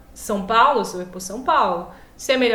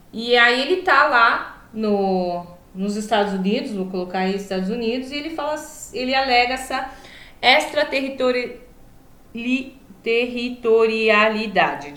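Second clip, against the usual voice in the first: talking with a swollen lip. Real, not acted. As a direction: speak around a puffy lip. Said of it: "Eu tô com um negocinho na boca".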